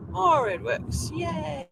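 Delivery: high, delighted little cheer; excited. Real, not acted. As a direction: squeal a happy yay. Pleased exclamation.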